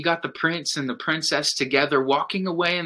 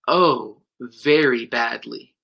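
cartoon princess; 3 semitones lower, 3 dB louder, slower than usual. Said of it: "said the princess".

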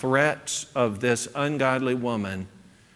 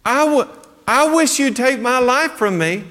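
higher, louder desperate plea; Elijah's plea to God, higher and louder; pleading to God; 11 semitones higher, 5 dB louder than usual. Retold or imitated. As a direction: beg God for an end, hammed-up. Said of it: "who does he take that plea to".

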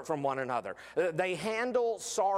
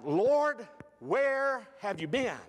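furious demand; 6 semitones higher, much slower than usual. Retold or imitated. Martha confronting Jesus outside the village, furious. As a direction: hurl the question at him in fury. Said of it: "she is so furious".

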